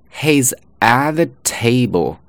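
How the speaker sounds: slow "at" with no released t; weak form. Shown as a demonstration. Teacher demonstrating the second sentence, slow careful reduced "at". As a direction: glide from "at" straight into the. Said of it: "读为呃".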